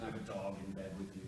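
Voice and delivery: normal talking voice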